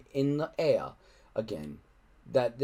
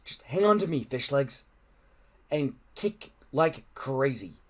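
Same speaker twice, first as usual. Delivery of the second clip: ordering. Acted. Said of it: "ordered Hiccup".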